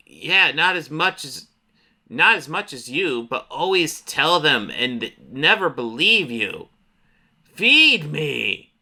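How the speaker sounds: slow, swooping creature drawl; monster voice. Acted. Monster answering the little boy, slow monster drawl. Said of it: "the monster talks to him".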